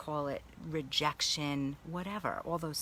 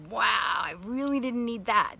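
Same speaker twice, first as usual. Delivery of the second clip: retold shock; 6 semitones higher, 8 dB louder than usual. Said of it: "And I was like".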